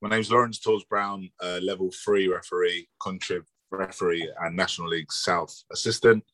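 a bit hoarse and croaky. Real, not acted. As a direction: speak through a croaky throat. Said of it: "I'm a bit croaky".

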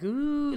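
a high ghost-like ooh; ghostly ooh. Shown as a demonstration. Comic describing massage music, ghostly ooh. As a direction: moan it like a spooky ghost. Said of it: "I don't know why I just went".

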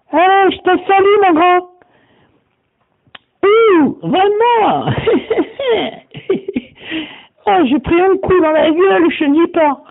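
voix de fausset perchée, qui s'esclaffe; personnage suraigu. Acted. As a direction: monte tout en haut, petite voix aiguë amusée. (personnage à voix suraiguë qui salue et rit)

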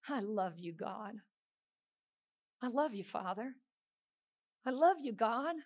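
softly murmured "I love you"; quiet inner prayer. Pretend. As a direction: say it under your breath. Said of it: "the whole time you're saying".

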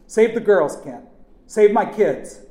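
high, loud desperate cry; screamed plea. A narrator's reading. Father pleading for his kids, screaming. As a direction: beg at full volume. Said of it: "Chick screamed".

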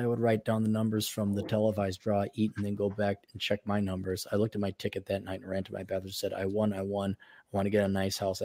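soft, low read-through of a quote; reading aloud. Acted. Host reading the lottery winner's quote to co-host, reading aloud. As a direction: read it quietly, under your breath.

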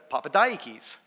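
Papadiakis, vowel between AH and EYE; dad's ambiguous pronunciation. Retold or imitated. Dad answering his son at a Greek restaurant, ambiguous pronunciation. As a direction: blur AH and EYE in Papadiakis, ending "keys". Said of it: "is it ah or I".

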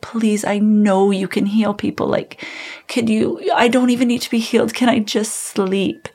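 pleading. Retold or imitated. Sleepless woman praying to God at night, mildly pleading. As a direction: beg gently, as in a retold prayer. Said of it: "I was pleading with God".

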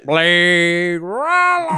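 dramatic movie voice. Pretend. Drawn-out movie-title voice again.

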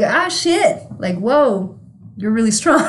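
hammed-up awe at the slap; mock impressed surprise. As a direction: pretend to be wowed by a toddler's strength. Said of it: "go back to that moment and be like".

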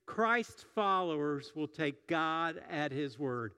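slow emphatic sermon line; slow, deliberate declaration. Shown as a demonstration. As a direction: spell out the key sentence slowly. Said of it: "Will you say that with me?".

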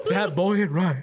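giggly high remark; laughing. Real, not acted. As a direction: chuckle it out. Laughing drawl comment.

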